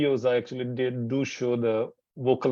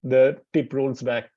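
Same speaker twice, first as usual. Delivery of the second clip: slow explaining; 4 dB louder, slower than usual. Shown as a demonstration. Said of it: "when you pronounce retroflex".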